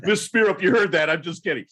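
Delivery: laughing it off to the wife; chuckling, playful take-back; laughing apology. Real, not acted. Host laughing to the guest's wife about his joke. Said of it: "I'm kidding".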